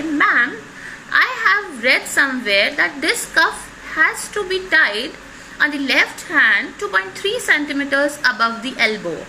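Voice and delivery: understated, politely sarcastic correction; lightly acted condescension, pointedly precise; mildly mocking. Perfectionist patient correcting the nurse on the cuff, mildly mocking. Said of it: "very mildly and in a very mocking way".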